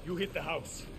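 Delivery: quiet tactical briefing; hushed. Acted. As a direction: keep it down, you're sneaking in. Sneaking onto the island.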